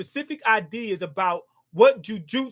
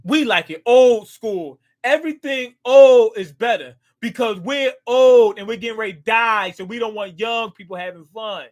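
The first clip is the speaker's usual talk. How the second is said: mock grumpy elder; mock old conservative; 7 dB louder than usual. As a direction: ham up a cranky old man. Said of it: "Conservatives, that's what it's like".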